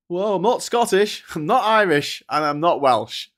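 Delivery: high, loud voice listing what he isn't; hammed-up proud denial, each not punched; mock English person. An English person answering, in a hammed-up proud voice.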